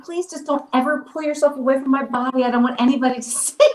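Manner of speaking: laughing plea. Retold or imitated. Recalled plea to scene partner, laughing.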